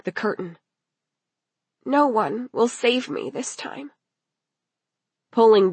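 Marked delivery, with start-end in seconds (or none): 2.0-3.9 put-on higher, small girl's voice; a hushed, frightened thought; fearful despair.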